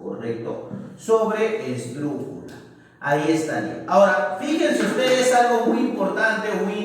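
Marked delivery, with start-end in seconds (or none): 1.0-2.5 slowly drawn-out word. Shown as a demonstration. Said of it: "Aquí está la mayor fuerza de voz".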